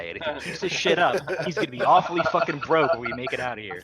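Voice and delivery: laughing through a mock threat. Real, not acted. Player teasing Rye about the shrinking cut, laughing. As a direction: chuckle through the warning.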